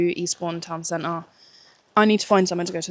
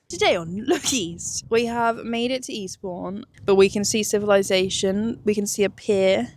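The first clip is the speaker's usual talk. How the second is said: news anchor voice. Pretend. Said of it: "sound like a breaking news".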